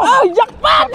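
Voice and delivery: high, excited exclamation; jubilant cry. Real, not acted. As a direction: crow over a lucky catch. Celebrating the big catch.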